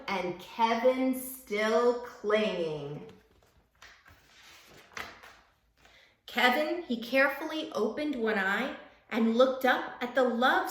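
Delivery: lively, sing-song picture book reading; reading to children. A narrator's reading. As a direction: read it like storytime for little kids.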